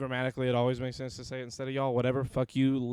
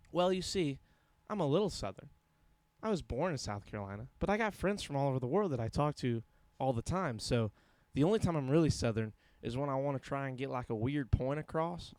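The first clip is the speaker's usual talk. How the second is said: put-on Southern accent. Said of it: "You sound so much like Mike".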